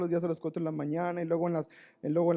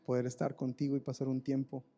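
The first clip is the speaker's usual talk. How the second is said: intimate prayer; 5 semitones lower than usual. Acted. Preacher prays to the Lord, low and tender. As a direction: pray it close and humble.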